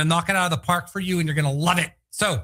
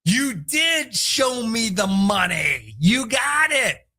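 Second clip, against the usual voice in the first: mock delighted shout; excited scream; 2 semitones higher, much slower than usual. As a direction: cheer it out triumphantly. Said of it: "who could scream to me".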